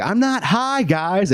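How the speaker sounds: very high, squeaky protest of innocence; cartoonishly high defensive denial; stoned denial. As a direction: play the obviously stoned kid insisting he's fine. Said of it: "imagine being sixteen and telling".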